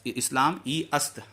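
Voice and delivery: "ई अस्त" as two separate words; separated pronunciation. Shown as a demonstration. Teacher showing how it ought to be, separated pronunciation. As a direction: keep "ई" apart from "अस्त", both vowels sounded. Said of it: "ऐसे होना चाहिए".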